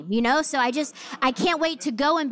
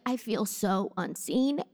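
tearful complaint; 5 semitones lower, 5 dB quieter, slower than usual. Retold or imitated. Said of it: "I cried to my husband".

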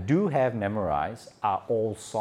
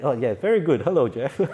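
amused and loud, laughing through it; loud, laughing hello; laughing reply; 4 semitones higher, 6 dB louder than usual. Retold or imitated. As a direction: greet the caller with a laugh. Answering Jeff's recitation.

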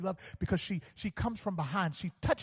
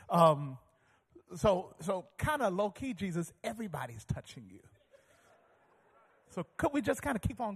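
lower, laid-back explaining to Jesus; condescending Peter; 3 semitones lower than usual. Retold or imitated. Peter talking down to Jesus about the crowd, lightly mocking. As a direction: set him straight, casually. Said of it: "as if he's enlightening Jesus".

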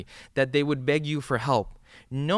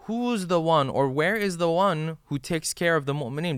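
calling out; 4 semitones higher than usual. Retold or imitated. The man in hellfire crying out for his guardian, raised call. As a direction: call out like someone searching for help. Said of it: "I'm gonna be calling out".

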